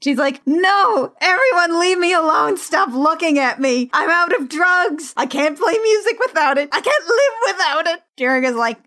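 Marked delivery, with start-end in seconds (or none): 0.5-8.0 high-pitched mock tantrum. Recapper mimicking Laura's meltdown over drugs, high mock tantrum. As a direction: wail it like a melodramatic addict throwing a fit. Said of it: "massive drug addict tantrum".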